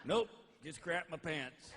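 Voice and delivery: slow dry sarcastic retort; sarcastic deadpan. Retold or imitated. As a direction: drawl it out dryly.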